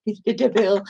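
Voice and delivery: lightly voiced faded film diva; a hint of grand old movie star; half-hearted diva impression; Nora Desmond. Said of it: "the Nora Desmond character".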